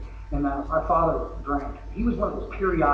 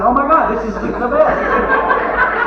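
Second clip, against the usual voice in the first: mock gushing; 8 semitones higher, 6 dB louder, much slower than usual. Newcomer gushing about treatment.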